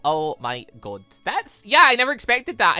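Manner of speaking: ordinary talk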